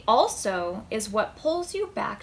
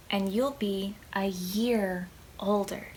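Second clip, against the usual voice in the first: hushed whisper; 3 semitones lower, 4 dB quieter than usual. Acted. Reader whispering the punchline to the child. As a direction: whisper it as a little secret. Whispered aside in kids' book.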